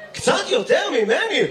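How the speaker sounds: slow, high, drawn-out question; mock-incredulous, lingering on each word; teasing disbelief. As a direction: stretch it out to tease him. Teasing an audience member about his age.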